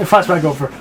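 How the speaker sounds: whispered flashback announcement; whispered cue. Pretend. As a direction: whisper it as a scene transition. Playful scene-transition effect.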